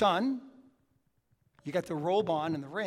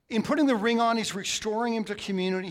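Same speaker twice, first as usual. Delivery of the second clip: rising sermon emphasis; 6 semitones higher, 9 dB louder, faster than usual. Real, not acted. Preacher surges in emphasis.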